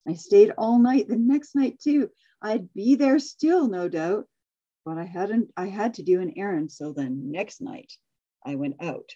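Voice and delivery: storybook reading, lively and even; story narration. Acted. Reading a Seuss story to the class, storyteller voice. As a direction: read the tale to the group like a picture book.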